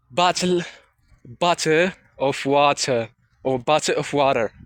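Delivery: American English pronunciation of 'bottle of water'; American English accent. Shown as a demonstration. Vlogger showing how American English says it, American accent. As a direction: demonstrate American 'bottle of water', t's sounded. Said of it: "in American English, we say".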